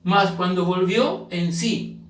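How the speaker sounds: "volvió" drawn out with a rising tune; slow weighty reading. Shown as a demonstration. Preacher rereads the verse to the church, slow and weighty. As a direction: read every word slowly for weight. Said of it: "el texto bíblico dice".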